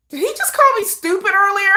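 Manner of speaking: high, laughing double-take; laughing realization. Retold or imitated. Fan realizing hours later, laughing. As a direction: crack up as it finally sinks in. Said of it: "They be like".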